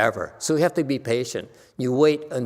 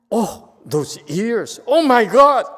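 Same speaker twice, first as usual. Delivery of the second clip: slow, then much higher and louder cooing; mock gushing; 10 semitones higher, 8 dB louder, slower than usual. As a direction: gush over the dog's ears. Mock gushing over a cute dog.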